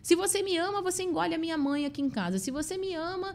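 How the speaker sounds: high, demanding "se você me ama"; playing the partner who sets conditions; mock controlling partner. (imitando a parceira controladora, aguda e exigente)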